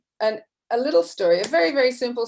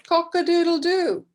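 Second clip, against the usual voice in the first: rooster crow; 7 semitones higher, 4 dB louder than usual. Retold or imitated. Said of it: "a rooster actually says".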